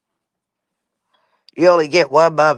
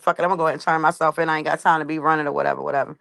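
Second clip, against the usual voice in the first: fast and softer, giving up; resigned; 5 dB quieter, much faster than usual. Retold or imitated. Deciding to turn herself in, fast, resigned mumble. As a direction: rattle it off like you're done fighting. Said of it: "I'm like".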